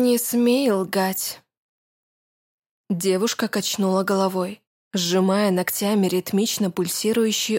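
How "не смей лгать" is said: stern. Acted. The girl cuts off the lie.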